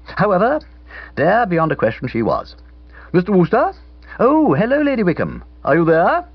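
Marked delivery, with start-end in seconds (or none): 3.1-6.2 tearful. Acted. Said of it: "she took time out to sob again".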